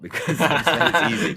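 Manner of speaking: laughing through the words; laughing nervously. Real, not acted. Put on the spot, laughing.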